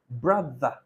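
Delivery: "brother" repeated with a voiced TH; correct TH. Shown as a demonstration. Teacher repeats for the class, "brother" with clear voiced TH. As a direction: model the TH in "brother" carefully. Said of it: "this T H is not the".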